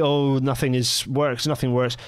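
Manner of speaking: usual speaking voice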